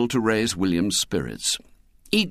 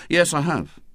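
put-on lightly raised boyish voice; a young boy answering his mother, higher; boy William; 7 semitones higher than usual. A narrator's reading. Boy William answers his mother, lightly boyish.

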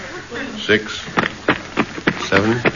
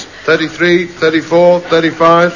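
raised, higher counting; 6 semitones higher than usual. Acted. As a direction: count over the top of him. Counting louder to drown him out.

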